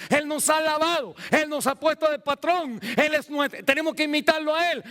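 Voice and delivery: high, driving sermon delivery that keeps building; fervent preaching. Real, not acted. Preaches at full force. (prédica ferviente)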